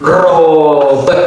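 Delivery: robe stretched long and slow; drawn out. Shown as a demonstration. Teacher models robe for learners, drawn out. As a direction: hold the vowel of robe before the final b. Draws the word out.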